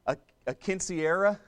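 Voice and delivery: attempted Spanish accent on quinceañera; careful try at a Spanish-accented quinceañera; best Spanish accent. Shown as a demonstration. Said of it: "That's my best Spanish accent right there".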